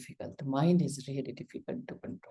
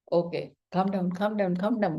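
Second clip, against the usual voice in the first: self-soothing, a bit higher; telling oneself to calm down; 3 semitones higher than usual. Retold or imitated. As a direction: coax yourself to calm down, half-acted. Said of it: "and my breath is".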